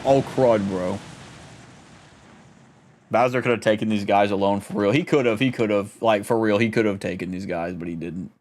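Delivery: low, rumbling big-bad-guy growl; low Bowser impression grumbling about the fight. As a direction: drop the voice deep like a hulking villain king. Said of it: "That's what I do for Bowser's voice".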